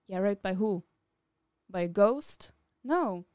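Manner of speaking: sarcastic, rising loud questions; indignant. Real, not acted. Indignant rhetorical questions, louder.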